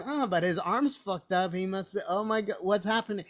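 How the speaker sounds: high-pitched, baffled fan reaction; mock bewilderment. Reliving the surprise cameo for co-hosts, hammed-up bewilderment.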